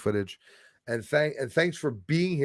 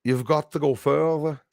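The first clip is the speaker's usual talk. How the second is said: put-on Scottish accent; 3 semitones higher than usual. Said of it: "I started picking up his accent".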